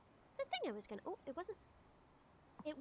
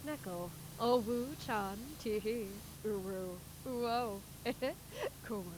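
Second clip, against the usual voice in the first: lightly voiced cutesy anime girl; excited anime fan; 5 semitones lower, 5 dB quieter than usual. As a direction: play the giggly anime fan. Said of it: "That's evil".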